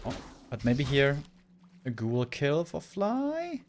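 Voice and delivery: ordinary talk, nothing marked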